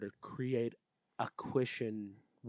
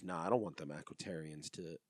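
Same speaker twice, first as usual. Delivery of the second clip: Zed voice; 4 semitones lower, 4 dB quieter than usual. Retold or imitated. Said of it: "Zed goes".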